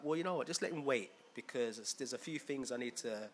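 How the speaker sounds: a lightly voiced God speaking calmly; hushed God voice. God answering Jesus about Patrick, softly. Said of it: "It's like".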